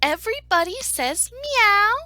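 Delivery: emphatic announcing. Acted. Story narrator giving animals another plan, loud and emphatic. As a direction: proclaim the revised plan.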